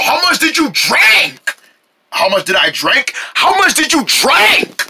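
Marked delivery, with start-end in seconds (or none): 0.0-1.6 high, shouted question; urgent demand. Acted. Urgently interrogates friend about potion. 3.3-4.8 high, exasperated repeat of the question; insistent demand. Acted.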